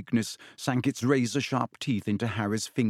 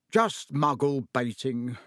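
slow weary sigh; slower than usual. Acted. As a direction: let it out slowly, tired. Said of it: "sighed Mister Weasley".

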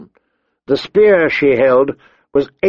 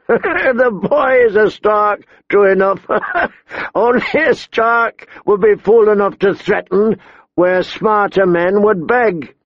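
mock the boy through chuckles; laughing mockery; 8 semitones higher than usual. A narrator's reading. Gaunt robber to threatening boy, laughing mockingly.

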